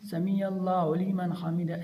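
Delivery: words run into one another, little weight; run-together wrong reading. Shown as a demonstration. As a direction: gabble the phrase as one string. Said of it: "ऐसे हमने नहीं पढ़ना". (मिलाकर जल्दी पढ़ना)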